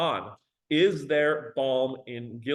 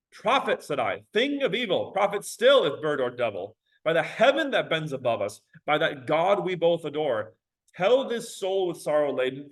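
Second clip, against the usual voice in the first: dramatic recital. Shown as a demonstration. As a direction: plead it like a grieving man. Dramatic reading of stanza.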